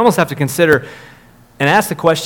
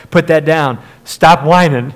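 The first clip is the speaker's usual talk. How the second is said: put-on a mom snapping at whining kids, louder; mock scolding mom; 5 dB louder than usual. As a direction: play the fed-up mom scolding her kids.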